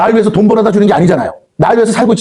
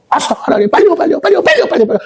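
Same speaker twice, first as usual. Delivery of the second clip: high, insistent repeated 빨리요; a child nagging a parent, much higher; urgent nagging prayer; 10 semitones higher, faster than usual. Acted. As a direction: pester God with 빨리요 over and over. Impatient believer nagging God in prayer.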